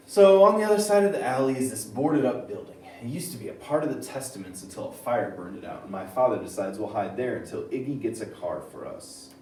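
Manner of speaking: brisk read-aloud from a book. Shown as a demonstration. Teacher showing students the boarded up building passage, in a reading voice. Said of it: "I'm gonna use my reading voice".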